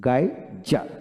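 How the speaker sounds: গাইজার split into গাই and জার, with a gap; careful phonetic reading of গাইজার, broken after গাই; syllable by syllable. Shown as a demonstration. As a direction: sound out গাইজার slowly in two parts. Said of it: "আর সিম্বলটা হলো".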